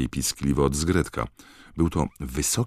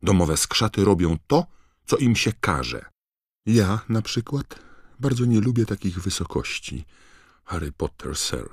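high, louder dutiful elf voice; a servant elf reciting the rules; high earnest elf voice; prim house-elf; 6 semitones higher, 3 dB louder than usual. Acted. Voices Winky.

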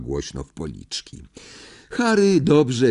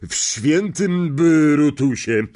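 quick answer; 6 semitones higher, 3 dB louder, slower than usual. A narrator's reading. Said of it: "odpowiedział szybko wuj Vernon".

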